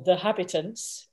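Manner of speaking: anglicised, proper English pronunciation; proper English accent. Shown as a demonstration. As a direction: say "Habitants" as a proper English word. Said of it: "say in a proper English accent".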